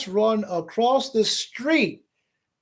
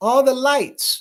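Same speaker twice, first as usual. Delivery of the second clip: usual speaking voice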